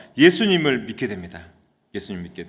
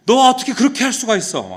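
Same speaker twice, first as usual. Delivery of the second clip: high-pitched, acted angry reproach; angry outburst; 10 semitones higher, 4 dB louder than usual. Convert grabs his friend and demands why, acted angry outburst. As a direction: burst out in imitated outrage. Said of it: "막 화를 내면서".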